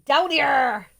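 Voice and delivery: lightly voiced Somerset drawl on "Down here"; a touch of West Country Somerset accent. Shown as a demonstration. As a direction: say "Down here" with a Somerset lilt, twice. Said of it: "I like to say".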